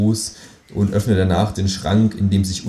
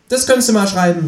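much higher, pert kangaroo voice; cheeky kangaroo voice; 12 semitones higher, 4 dB louder than usual. Acted. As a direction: play the kangaroo as a sassy, high-voiced know-it-all. Känguru dialogue.

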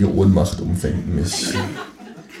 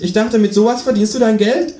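high, cheeky kangaroo voice; 14 semitones higher, 4 dB louder than usual. Acted. Kangaroo asks narrator to shove over, high cheeky. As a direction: pitch way up for the cheeky marsupial.

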